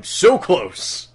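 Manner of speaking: loud and slow, fed up; frustrated shout. Real, not acted. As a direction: burst out in frustration. Louder repeat, frustration.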